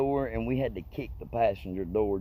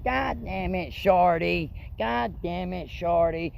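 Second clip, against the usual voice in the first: much higher, exasperated cursing at Shorty; Wesley cursing; 8 semitones higher, slower than usual. Retold or imitated. Driver cursing at his friend in the car, high exasperated. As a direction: throw it up high in frustration. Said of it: "He's like".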